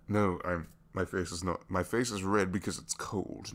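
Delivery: flustered denial. Acted. Flustered excuse for blushing.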